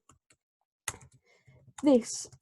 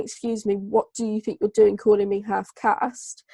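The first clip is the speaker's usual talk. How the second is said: mildly indignant, acted objection; indignant challenge. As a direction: challenge the person doing the labelling. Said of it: "If you're saying".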